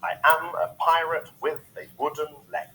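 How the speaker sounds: "I am a pirate with a wooden leg" stressed on AM, PI, WITH, WOOD, LEG; even iambic beat on "I am a pirate with a wooden leg"; iambic pentameter. Shown as a demonstration. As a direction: step through "I am a pirate" weak-strong, weak-strong. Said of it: "happens to be in iambic".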